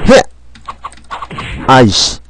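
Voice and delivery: usual speaking voice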